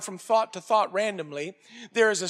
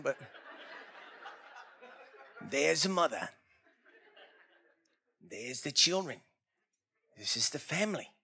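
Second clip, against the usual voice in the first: put-on Australian accent in a nature narrator style; 7 semitones lower, 10 dB quieter than usual. Imagining a reporter dropped into the Garden of Eden, in an Australian accent. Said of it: "It's more of an Australian accent".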